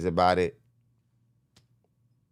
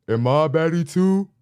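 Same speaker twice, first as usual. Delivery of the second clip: high, loud mock-girly question; pitched-up, exaggerated woman's voice; mimicked club girl; 9 semitones higher, 7 dB louder than usual. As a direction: imitate a club girl fishing for validation. Mimics insecure women at club.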